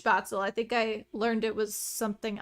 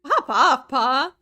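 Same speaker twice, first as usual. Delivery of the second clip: loud cheer; 3 semitones higher, 8 dB louder, slower than usual. Real, not acted. Cheers at game character.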